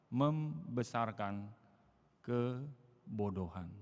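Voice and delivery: very slow, drawn-out words; preacher finishing the verse for the crowd, slowly; slow, weighty. Acted. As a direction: let "kebodohan" land heavily. Completing the proverb slowly.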